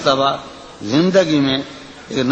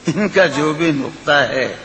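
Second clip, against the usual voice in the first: lilting, sung-through recitation of a ghazal; poetry recitation. Acted. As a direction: recite it like at a mushaira. Recites the nazm.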